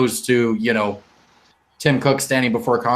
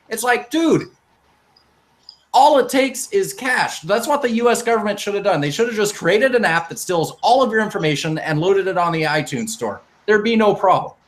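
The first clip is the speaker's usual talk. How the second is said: worked-up, higher-pitched rant; frustrated; 5 semitones higher than usual. Real, not acted. Venting to co-hosts about Apple's double standard, frustrated. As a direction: argue it with real exasperation. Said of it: "now I'm getting frustrated".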